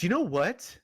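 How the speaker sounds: yelling the question at him; outdoor voice indoors. Real, not acted. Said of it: "why are you yelling at me".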